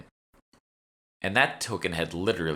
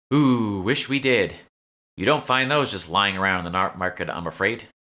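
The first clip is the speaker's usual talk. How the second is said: lightly voiced shopkeeper; 3 semitones higher, 5 dB louder than usual. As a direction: play the eager young shopkeeper, slightly raised. The speaker on glamours.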